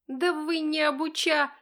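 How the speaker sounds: high cut-off retort; bratty interrupted snipe; snapping back. Acted. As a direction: start to snarl back and get cut off. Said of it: "хочет Проходов очередной раз огрызнуться".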